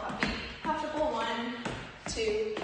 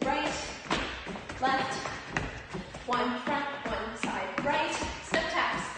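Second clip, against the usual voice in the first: calling dance counts. Acted. Calls steps while dancing.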